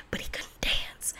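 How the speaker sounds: whispered gossip aside; hushed confiding whisper. Real, not acted. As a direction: lean in and whisper it.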